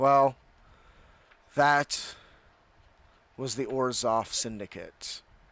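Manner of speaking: dropped, deep, low voice. Retelling what someone said, kind of in a deep voice. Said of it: "kind of in a deep voice".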